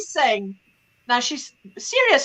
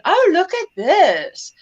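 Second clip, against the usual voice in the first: higher, drawn-out look-at-this; eager show-and-tell; 5 semitones higher, much slower than usual. Retold or imitated. Showing mother her phone, eager. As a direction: imitate someone proudly showing a phone picture. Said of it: "So she's showing me her phone".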